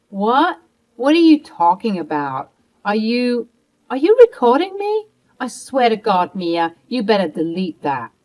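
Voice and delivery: shocked outrage turning to threat; shocked and furious. Acted. Martha realising Mia is recording her, shocked then threatening. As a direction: voice jumps very high and loud in disbelief.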